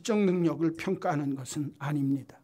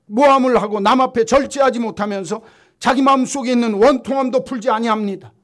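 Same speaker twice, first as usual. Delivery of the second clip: loud, high denouncing list, each word hammered; full-force preaching; 6 semitones higher, 12 dB louder than usual. Acted. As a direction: rail against the age from the pulpit.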